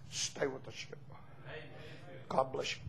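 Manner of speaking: hushed farewell sermon line; soft closing plea. Acted. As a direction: say it gently as a final plea. Quiet closing charge.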